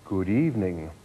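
lightly voiced talking cow; lowing animal. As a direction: greet them like an obliging bovine waiter. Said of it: "it lowed".

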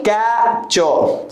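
Capture with a wide-open first vowel; open-mouthed vowel. Shown as a demonstration. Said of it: "Open your mouth".

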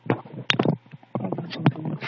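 slow, drawn-out fish voice. Acted. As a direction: plead slowly as a hungry fish. Fish voice asking food.

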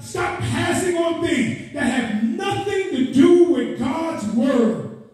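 rolling, insistent sermon questions; urgent pulpit exhortation; impassioned preaching. Real, not acted. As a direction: press the congregation like a fired-up preacher. Preaches at full force.

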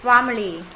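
"Family" with A between ah and eh; short front A in "Family"; half A, half E. Shown as a demonstration. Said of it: "nửa A nửa E".

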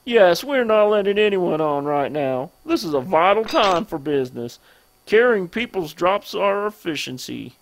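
hammed-up southern businessman; bad southern accent. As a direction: put on a rough southern accent for a game character. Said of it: "I do a bad southern accent".

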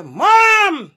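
high, loud cry of Mom; calling out. Retold or imitated. Child calling to mother, high loud call. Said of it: "you just say".

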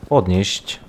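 ordinary delivery

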